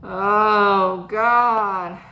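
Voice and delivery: long, loud exasperated groan of the words. Real, not acted. Worker reliving a run-in with a customer, exasperated. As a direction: let out a drawn-out, weary "oh God". Exasperated at retold work incident.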